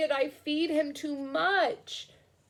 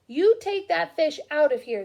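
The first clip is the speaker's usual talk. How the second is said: yelled; 4 semitones higher, 5 dB louder than usual. Acted. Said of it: "they yelled".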